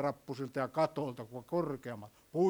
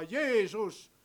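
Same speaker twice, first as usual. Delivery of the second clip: drawn-out plea, only mildly raised; slow, higher-pitched imitation of a beggar's call; retold calling out; 3 semitones higher, slower than usual. Preacher voices blind Bartimeus calling to Jesus, mild cry. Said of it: "hän rupesi huutaa".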